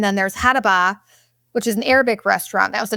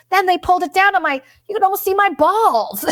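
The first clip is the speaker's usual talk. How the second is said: breaks into a high laughing shout; 9 semitones higher than usual. Real, not acted. Telling about the massage, bursting into laughter. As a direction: laugh through the punchline. Laughing at her husband's story.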